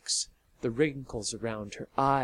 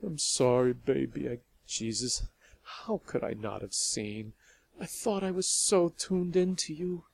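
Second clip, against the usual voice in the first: sad; 2 semitones higher than usual. Acted. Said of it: "Then Lavinia said sadly".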